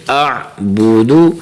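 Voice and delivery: آ بو دو with the pesh on بو and دو only slightly drawn; short pesh vowel. Shown as a demonstration. Teacher models آ بو دو for students, short clipped u. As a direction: give بو and دو a short, light u. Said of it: "پیش کو تھوڑا سا کھینچے".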